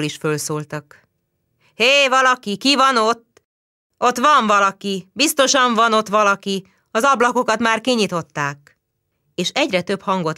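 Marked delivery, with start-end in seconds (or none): 1.7-8.8 higher, louder shouting up; calling out. Acted. Street neighbours calling up to the flat, loud. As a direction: shout across to the windows.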